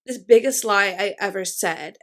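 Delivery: lightly mimicked attitude from a song; imitated sassy talking part. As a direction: quote it with a touch of attitude. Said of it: "that attitude of it".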